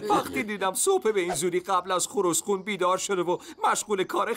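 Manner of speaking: speaking through a long laugh. Acted. Farm animal laughs while praising the early riser. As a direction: chuckle as you start the story.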